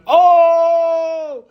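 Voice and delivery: high excited crowd gasp with a laugh; mock crowd reaction. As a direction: echo the crowd's shocked oh.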